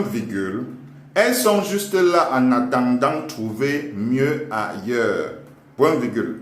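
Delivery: slow teacher dictation voice; dictating. Acted. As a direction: read out word by word. Dictating continues.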